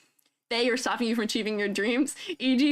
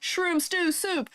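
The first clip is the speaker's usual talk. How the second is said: slow careful; 6 semitones higher, much slower than usual. Shown as a demonstration. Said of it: "Say that five times fast".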